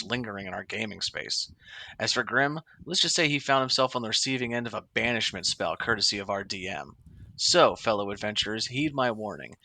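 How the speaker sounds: dramatic storyteller reading aloud; theatrical campfire tale voice; horror host. Acted. Reads story post in dramatic voice.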